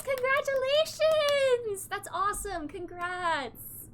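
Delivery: high, loud, drawn-out cheer easing off; excited congratulations. Real, not acted. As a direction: cheer for a friend's good news. Congratulates a viewer on good news.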